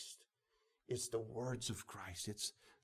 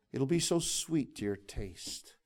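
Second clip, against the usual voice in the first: voicing God; 4 semitones higher, 8 dB louder, slower than usual. Preacher voicing God, rising.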